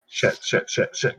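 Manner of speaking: hushed, half-voiced rapid cursing; muttered panic. Player's character hides under blankets from the shadow, hushed panicked muttering. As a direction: curse under your breath. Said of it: "just be like".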